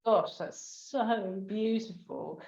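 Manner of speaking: slow, emotional and breathy; holding back tears, slowly; moved, near tears. Real, not acted. Host to guest, overcome and near tears. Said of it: "take a moment to sort of breathe".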